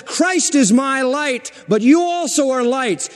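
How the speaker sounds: high, slow proclaiming; voice of God, lightly done. Retold or imitated. Preacher voicing God to the church, high and slow. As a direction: speak as God, slowly. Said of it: "God says".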